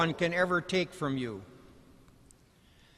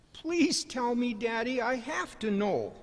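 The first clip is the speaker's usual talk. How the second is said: put-on pleading little boy; 4 semitones higher, 4 dB quieter than usual. Son pleading with father.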